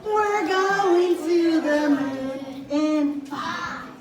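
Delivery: put-on bright singsong countdown for kids; kindergarten teacher voice. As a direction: lead the little ones like a preschool teacher. Preschool teacher leading rocket song.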